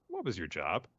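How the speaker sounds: understated acted reprimand; mild scolding. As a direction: open the telling-off evenly, as a question. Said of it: "scolding Naroya and says".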